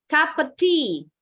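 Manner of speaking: "Cup of tea," with of shrunk to "uh", kap-uh-tea; reduced of. Shown as a demonstration. Teacher models native-sounding cup of tea, run together. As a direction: blend "Cup of" into one quick kap-uh. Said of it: "pronounce this phrase as".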